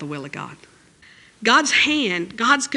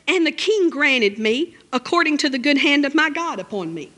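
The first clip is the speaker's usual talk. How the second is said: scripture reading; 3 semitones higher than usual. Shown as a demonstration. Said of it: "And it says".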